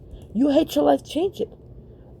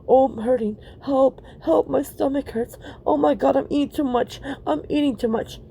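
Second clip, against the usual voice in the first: mock complaint, pitched slightly up; annoying complaining; 3 semitones higher than usual. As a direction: put on an annoying moaner, lightly hammed up. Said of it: "You know how annoying I sound?".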